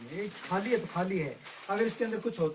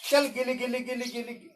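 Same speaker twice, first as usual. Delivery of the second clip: put-on kids party magician; 4 semitones higher than usual. Magic chant second try.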